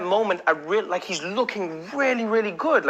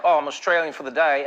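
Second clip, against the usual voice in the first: put-on Australian accent; 2 semitones lower than usual. Comic showing off an accent he uses on vacation, Australian accent. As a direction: play it as a cheerful, excitable Australian. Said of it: "great thing about an Australian accent".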